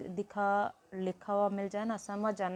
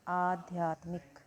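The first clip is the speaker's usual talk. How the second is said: slow model word; slower than usual. Shown as a demonstration. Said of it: "तो यानी क्या शब्द मिलेगा मुझे?".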